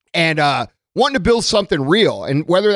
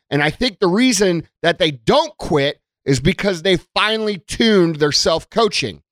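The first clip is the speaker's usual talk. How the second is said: ordinary talk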